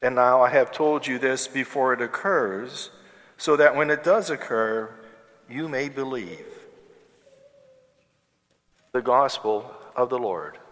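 distant reverberant voice in a big church; cathedral echo. Real, not acted. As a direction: proclaim it into a cavernous hall. Priest proclaims gospel in church.

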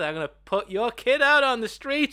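high, loud strained threat; hammed-up villain threatening while being choked; choking pimp, mocked. Podcaster quoting the pimp's line while he's choking, mock menacing.

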